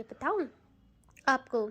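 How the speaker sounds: lovingly asking if she should tell. A narrator's reading. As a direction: coax it out lovingly, drawing the hum. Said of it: "बहुत प्यार से और कहती है".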